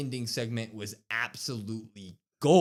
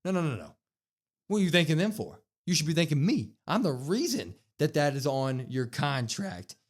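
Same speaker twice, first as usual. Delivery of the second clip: indignant demand; 4 semitones higher, 3 dB louder than usual. Retold or imitated. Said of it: "And Roman says".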